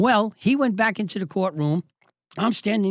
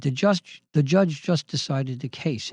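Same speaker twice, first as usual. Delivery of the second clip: 1 phony humble; 3 semitones lower than usual. Retold or imitated. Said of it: "low, phony, humble voice".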